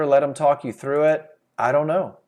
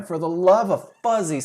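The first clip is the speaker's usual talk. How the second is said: exasperated sellers. Retold or imitated. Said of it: "they said it for the third time".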